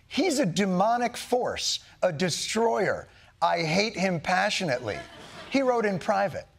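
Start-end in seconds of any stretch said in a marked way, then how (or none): 0.1-5.0 slow, heavy dramatic reading. Retold or imitated. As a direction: lean into each damning word. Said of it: "privately wrote of Trump".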